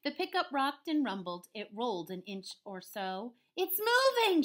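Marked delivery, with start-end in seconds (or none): 3.6-4.4 high, loud excited shout; Bossy Cow. Acted. Cow sees the truck roll, high excited shout. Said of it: "shouted Bossy Cow".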